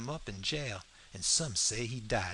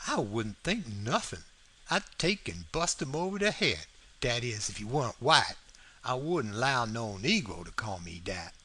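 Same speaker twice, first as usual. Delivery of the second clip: mildly indignant Southern dialect; lightly played affronted character; lightly voiced Jim. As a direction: bristle a little, in Jim's dialect.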